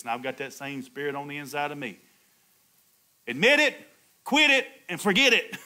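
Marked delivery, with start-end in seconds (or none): 3.3-5.6 laughing slogan. Real, not acted. Preacher quotes a slogan, laughing.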